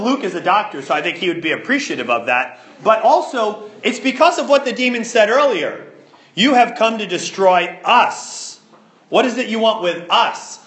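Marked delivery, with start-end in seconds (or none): 6.3-10.6 measured delivery leaning on "us"; a mild veiled menace, weight landing on "us"; veiled threat. Acted. Demon warning Jesus over its hostage, veiled threat. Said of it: "There's a veiled threat there".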